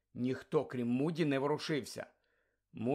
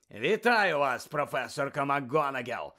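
unruffled; 4 dB louder than usual. Acted. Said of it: "сказав незворушно Муді".

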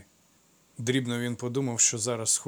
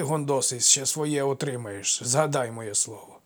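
menacing taunt; 3 semitones higher, 3 dB louder, slower than usual. Acted. Craftsman taunts and threatens.

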